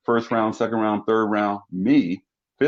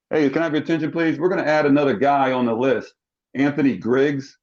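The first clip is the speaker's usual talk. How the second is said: coach announcing; 5 semitones higher than usual. Retold or imitated.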